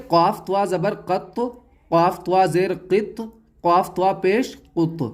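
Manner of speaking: कत, कित, कुत with the final t lightly bounced; qalqalah bounce. Shown as a demonstration. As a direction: release the t of कत, कित, कुत with a small echo. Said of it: "ऐसे ही". (कत, कित, कुत के त पर हल्का झटका)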